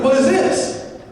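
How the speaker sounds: high, rising mock disbelief; acting out shock with pitch pushed up; incredulous question. Student looks at the other's grades, incredulous.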